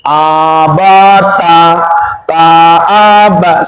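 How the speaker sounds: very slow drawn-out abata; direct reading. Shown as a demonstration. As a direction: stretch abata out syllable by syllable. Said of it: "kita nggak tahu huruf aslinya".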